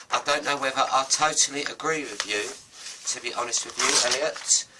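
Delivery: lightly voiced, chirpy goldfish pushing back; Bob's voice. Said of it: "This is Bob saying that".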